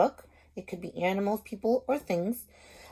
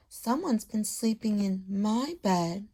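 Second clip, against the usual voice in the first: put-on squeaking Baby Bear; 3 dB quieter than usual. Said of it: "squeaked Baby Bear".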